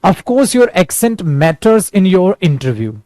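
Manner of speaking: very slow, word by word; teacher reads the sentence slowly for students to repeat; slow model sentence. Shown as a demonstration.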